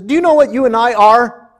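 loud, high-pitched yelled question; retold shout. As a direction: shout it excitedly across a parking lot. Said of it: "she shouted to Pamela".

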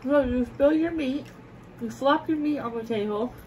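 loud, slow mock scolding; teasing scold. Real, not acted. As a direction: lay out the charges slowly. Teasing list of table mess.

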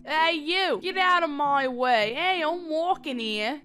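mock gruff shove through the crowd; a lightly voiced tough New Yorker; mock pushy shopper. Shoving through shoppers in game.

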